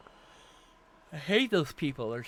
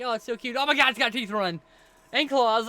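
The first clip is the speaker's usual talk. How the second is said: gushing, then a loud panicked yell; coo, then scream and run; cute then panicked; 9 semitones higher, 8 dB louder than usual. Pretend. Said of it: "you'd be like".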